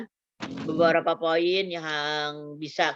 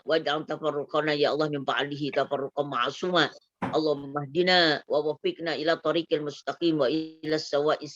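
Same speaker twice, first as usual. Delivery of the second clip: prayer recitation; 2 semitones lower than usual. Acted. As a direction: recite the Arabic prayer devoutly. (membaca doa penutup)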